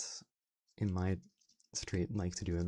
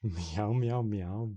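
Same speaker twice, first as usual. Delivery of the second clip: mock cat meows, louder and rising; playful meowing; 5 dB louder, much slower than usual. Streamer playing at being a cat, meowing loudly. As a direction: meow like a cat begging for attention. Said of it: "be a cat".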